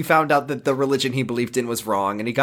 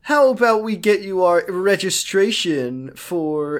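reasonable centrist; 5 semitones higher than usual. Retold or imitated. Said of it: "Josh tries to be Mister Centrist".

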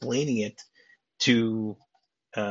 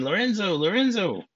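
higher calling out a name twice, a half-hearted yell; mock scream; 8 semitones higher than usual. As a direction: imitate someone yelling for a colleague. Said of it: "starts screaming".

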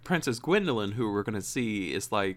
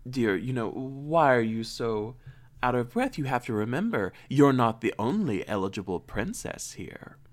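haughty stepmother. Retold or imitated. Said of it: "this is Hildred".

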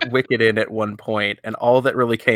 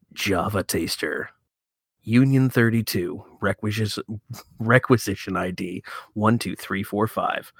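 movie trailer voice. Pretend. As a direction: sell it like an epic movie trailer. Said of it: "You have to do mine in that movie trailer voice".

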